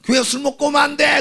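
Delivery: high, loud mock rebuke; imitating an indignant church member; acted scolding. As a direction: shout them away like a stern gatekeeper. Acted scolding, turning drinker away.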